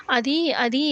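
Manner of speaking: a light, hesitant stammer on the repeated words. Retold or imitated. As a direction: falter as if caught out, mildly. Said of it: "తడబడుతూ ఉంటుంది".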